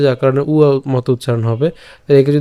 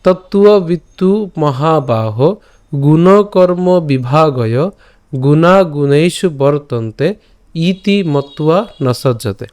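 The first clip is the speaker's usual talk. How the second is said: measured, slightly raised shloka recitation; verse recitation; slower than usual. Shown as a demonstration. Teacher repeating the full verse for the class. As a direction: recite the whole verse once more, deliberately. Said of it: "আমি আরেকবার বলছি".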